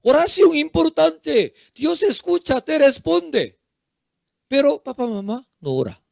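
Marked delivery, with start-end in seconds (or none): 0.0-3.6 parent admonishing. Acted. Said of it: "Pero dice que ore".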